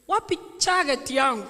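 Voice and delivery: imitated deep Kisii accent, "jacket" said as "chagget"; Sokoro. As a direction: ask like a child with a Kisii accent. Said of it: "words with the very deep Kisii accent".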